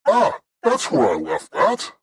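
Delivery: high, slow shopkeeper voice. Acted. Shopkeeper finding the lute he left, high and drawn out. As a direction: draw it out high, swooping up and down. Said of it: "one of the other sh-, shopkeepers comes and says".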